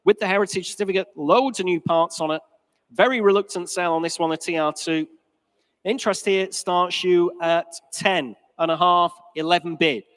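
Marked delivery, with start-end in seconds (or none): 5.8-10.0 fine art auctioneer. Real, not acted. Auctioneer calling bids.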